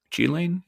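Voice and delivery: Ghislaine said zhee-LAIN, soft sh start, rising; soft French pronunciation. Shown as a demonstration. Host testing the French way, asking. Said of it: "I've heard both".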